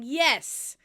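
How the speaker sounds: emphatic, drawn-out affirmation; acted show of conviction; convincing yes. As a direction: muster up courage and insist, slowly. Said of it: "very convincing".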